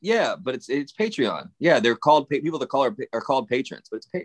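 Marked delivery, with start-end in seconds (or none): 0.7-1.5 "Patreon" with a full, open "-ahn" ending; preferred pronunciation. Shown as a demonstration. Co-host insisting on the name, preferred pronunciation. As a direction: correct to "Patreon" with a clear final "on". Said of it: "How do you say it?".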